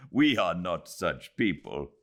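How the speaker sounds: a husband laughing off the idea, mildly amused; laughing reply. Acted. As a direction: say it through a light laugh. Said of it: "He was laughing".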